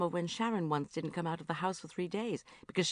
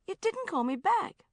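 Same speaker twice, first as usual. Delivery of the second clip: reproachful; 14 semitones higher, 4 dB louder than usual. Acted. Repeats reproachfully.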